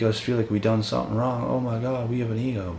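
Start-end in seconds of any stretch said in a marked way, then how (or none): 1.4-2.8 high mocking whine of critics; mocking critics whining about ego. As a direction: sneer it like a whiny critic. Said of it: "they want to put us into a corner".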